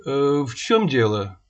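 official tone. Acted. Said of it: "уже официальным тоном".

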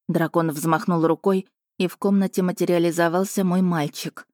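ordinary delivery, nothing marked

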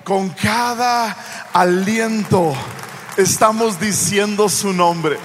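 loud, ringing sermon build; preaching at full force. Acted. Preacher rousing the congregation, loud full-force preaching. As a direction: proclaim it to the whole congregation.

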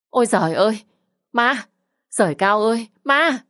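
shrill panicked cry of ghost, pitch climbing high; screaming "ghost". A narrator's reading. Aunt seeing a ghost, screaming in panic. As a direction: shriek in terror at a ghost. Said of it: "hét toáng cả lên".

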